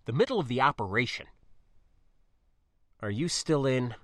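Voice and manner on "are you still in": level, controlled question; evenly. Acted. Spacer checking niece is still in, evenly. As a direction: ask without any push in the voice. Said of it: "I asked evenly".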